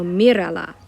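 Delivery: "mírala" stressed on MI; accent on the first syllable. Shown as a demonstration. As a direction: keep the weight on the opening syllable of "mírala". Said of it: "I am gonna put an accent on what".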